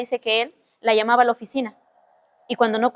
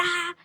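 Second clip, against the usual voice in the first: high, held-back squeal; excited mock scream; 5 semitones higher, 10 dB quieter than usual. Storyteller re-enacts her excited live stream, restrained mock scream. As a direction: imitate yourself squealing, high but soft. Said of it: "y yo emocionada".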